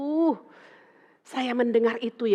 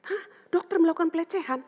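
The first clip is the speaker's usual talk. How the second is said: high, disbelieving "Hah?"; shocked question; 6 semitones higher than usual. Retold or imitated. Asking the widow about the doctor, high shocked disbelief. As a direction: recoil in disbelief.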